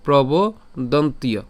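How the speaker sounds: প্রবোদন্তীয় slow but joined; said as one word. Shown as a demonstration. Teacher tries it together, প্রবোদন্তীয় slow and connected. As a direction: stretch "bo", then link দন্তীয় onto it. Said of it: "আমরা একসাথে উচ্চারণ করার চেষ্টা করব".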